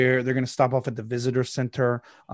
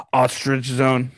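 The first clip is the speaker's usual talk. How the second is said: captain voice; 4 dB louder, slower than usual. Acted. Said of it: "he says".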